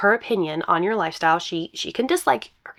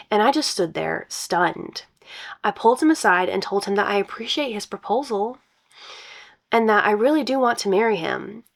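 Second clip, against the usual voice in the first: reading a post aloud; story narration; 2 semitones higher than usual. Acted. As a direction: brighter storytelling read.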